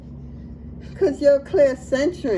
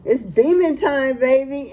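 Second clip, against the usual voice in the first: slow, louder, drawn out hype; hyped announcement; 4 dB louder than usual. Pretend. Tarot reader hyping up viewer, slow and loud. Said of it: "I don't know why I'm doing that".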